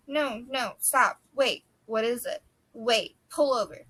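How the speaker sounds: urgent stop. Acted. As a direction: make her stop the car now. Tessa urgently stops the car.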